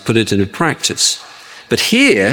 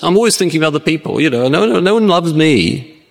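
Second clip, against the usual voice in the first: higher and rushed, a lightly voiced whinge; self-pitying moaner; 6 semitones higher, faster than usual. Preacher voicing the loveless humble person, whiny and higher. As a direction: play a lonely soul feeling sorry for themselves.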